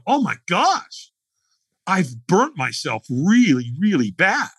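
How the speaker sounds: dawning horror, drawn out; alarmed realization. Retold or imitated. Firewalker thinking he is burnt, retold alarm.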